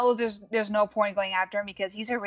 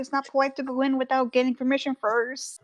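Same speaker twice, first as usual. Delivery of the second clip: higher, anxious protest; nervously object, pitched up; mildly flustered, higher voice; 5 semitones higher than usual. Acted. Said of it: "Rura looks nervous now that she goes".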